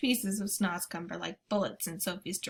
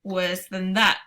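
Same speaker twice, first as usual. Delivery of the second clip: cried out; 7 dB louder, slower than usual. Acted. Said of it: "cried the B F G".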